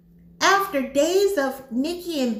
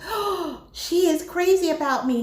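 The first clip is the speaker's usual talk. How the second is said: excited; 4 semitones higher than usual. Retold or imitated. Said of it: "He's so excited".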